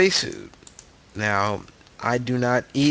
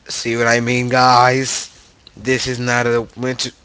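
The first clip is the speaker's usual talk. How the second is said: excited; 2 semitones higher, 8 dB louder than usual. Real, not acted. Excited spawn reveal.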